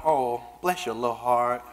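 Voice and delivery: low, mock-sympathetic Southern coo; condescending Southern pity. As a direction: pity them sweetly, with a hidden insult. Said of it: "look at me and go".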